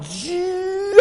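high, soft, stretched-out "gee"; mock straining to get up; strained drawn-out exclamation. Preacher acting out getting up from the pew, high strained exclamation. Acting out his reluctant rising.

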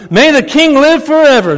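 high, loud proclamation; calling out from the den. Acted. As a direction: call up triumphantly from the pit.

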